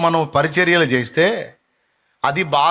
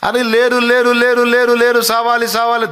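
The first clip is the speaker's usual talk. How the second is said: mocking taunt; 4 semitones higher, 3 dB louder than usual. Mocking taunt of barren woman.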